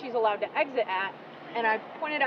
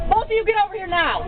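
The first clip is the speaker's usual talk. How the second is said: calling from far away; 9 semitones higher than usual. Real, not acted. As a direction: call them over from a distance, sharply. Officer orders girls out of car.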